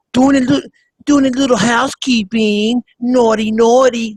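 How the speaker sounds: high-pitched mock Eastern European accent; hammed-up coquette with a Slavic accent; Melania Trump. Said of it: "That's how she talks".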